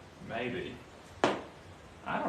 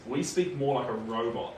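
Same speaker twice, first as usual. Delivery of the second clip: put-on monotone Kiwi accent; flat robot-like Kiwi voice. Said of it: "it's much more monotone".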